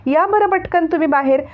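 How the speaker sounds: put-on a child calling loudly into the house. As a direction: shout for them to come quickly. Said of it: "तेवढ्याच जोराने ओरडत".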